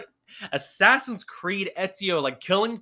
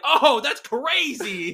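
callous rich guest; 7 semitones higher, 5 dB louder, much slower than usual. Retold or imitated. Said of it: "they're like".

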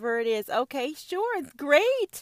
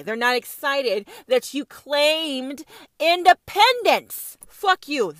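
mock British outrage; 3 semitones higher, 5 dB louder than usual. Voicing the angry British crown.

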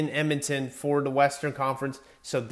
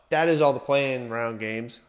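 out of breath. Real, not acted. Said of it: "I need to catch my breath here".

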